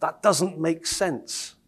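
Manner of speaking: slowly spelling out the confusion; slow puzzled objection. Retold or imitated. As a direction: drag it out like you can't follow. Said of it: "And you go".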